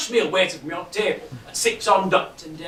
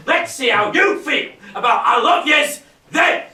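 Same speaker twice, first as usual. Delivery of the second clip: mock furious shout; 4 semitones higher than usual. Husband shouting sarcasm at his wife. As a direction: hurl it back at her. Father's rant climaxes, shouting.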